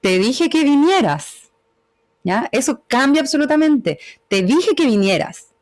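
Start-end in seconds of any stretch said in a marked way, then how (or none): 0.0-1.5 "Te dije que vinieras" slow, rising then flat, falling at "vinieras"; slow scolding reminder, falling at the end; like an order; firm reproach. Shown as a demonstration. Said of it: "más una orden que una pregunta". 4.3-5.5 "Te dije que vinieras" falling firmly, stress on "dije"; a command, not a question; falling, reproachful tune; like an order. Shown as a demonstration. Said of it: "más una orden que una pregunta".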